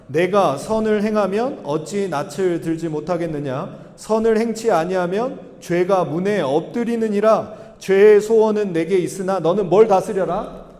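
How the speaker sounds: slow, measured congregational reading; deliberate, evenly paced recitation; scripture reading. Acted. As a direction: read the verse out slowly for all to follow.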